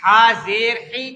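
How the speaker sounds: slow "ہا زیر ہی" with mid-throat h; throat letter drill. Shown as a demonstration. Teacher drills students on the h sounds, "ہا زیر ہی" slowly. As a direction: spell out "ہا زیر ہی" for repetition. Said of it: "ہا کی آواز الگ ہے".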